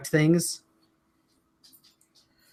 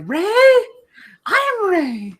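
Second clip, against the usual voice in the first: mock proud; slower than usual. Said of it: "I'm like".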